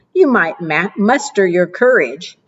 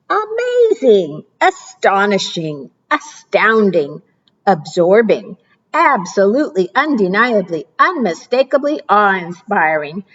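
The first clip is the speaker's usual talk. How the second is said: excited gush. Acted. Gushing list of praise.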